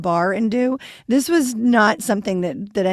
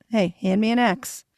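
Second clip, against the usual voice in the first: understated, casual calm imitation; calm request. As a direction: ask as if completely unbothered. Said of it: "She walks back very calmly".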